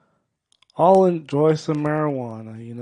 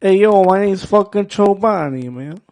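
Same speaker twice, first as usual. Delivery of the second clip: Joe Pesci; 4 semitones higher, 4 dB louder than usual. Pretend. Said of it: "pretend I'm Joe Pesci for a second".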